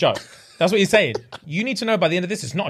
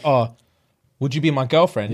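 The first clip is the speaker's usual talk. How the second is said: mock deep Harry; 7 semitones lower than usual. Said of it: "if I'm Harry and I said".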